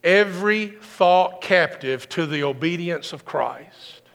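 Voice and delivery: slow, solemn quotation; lightly voiced apostle Paul; Paul quoted. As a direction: weigh every word like scripture. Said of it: "He said".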